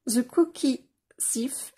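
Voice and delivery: a sudden gasp, then the title read slowly; delighted gasp. Real, not acted. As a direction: gasp in delight before reading it out. Gasps at a new picture.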